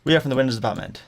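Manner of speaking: mildly imitated Indian-accented caller. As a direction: restate it with a light Indian accent. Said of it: "he definitely had an Indian accent".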